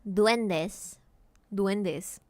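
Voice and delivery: duendes said the Spanish way, dwen-des; Spanish "duendes" with rolled vowels; Spanish pronunciation. Shown as a demonstration. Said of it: "can you say duendes".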